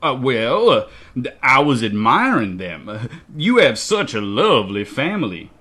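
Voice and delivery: hesitant, swooping put-on voice; sheepish flattery. A narrator's reading. Visitor makes excuses to the suspicious child, sheepishly flattering. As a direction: hem and haw, then lay on the compliment.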